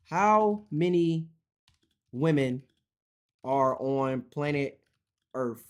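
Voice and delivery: each word spelled out slowly for the bot; slow dictation. Real, not acted. Dictating a question to ChatGPT, slow and deliberate. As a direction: speak it slow and clear so the machine hears.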